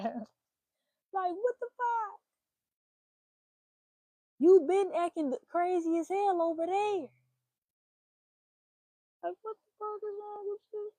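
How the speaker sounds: high-pitched, drawn-out outrage; loud, slow, incredulous rant; exasperated disbelief. Pretend. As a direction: scold him, voice up high in disbelief. Ranting at a man's crazy behavior.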